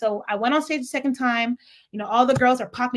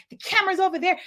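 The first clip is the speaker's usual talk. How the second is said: condescending; 6 semitones higher, faster than usual. Retold or imitated. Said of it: "trying to little girl me".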